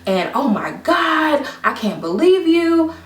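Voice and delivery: voiced as an aggrieved friend's rant, rising high at the end; mock indignant complaint. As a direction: imitate her reproach, climbing in pitch. Acting out friend's angry message.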